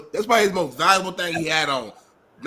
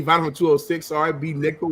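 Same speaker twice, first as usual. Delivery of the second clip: ordinary talk, nothing marked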